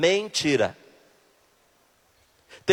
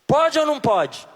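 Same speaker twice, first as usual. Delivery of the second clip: insistent demand; 5 semitones higher than usual. Shown as a demonstration. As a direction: demand the answer from the crowd. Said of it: "Me responda". (pergunta exigente, mais alta)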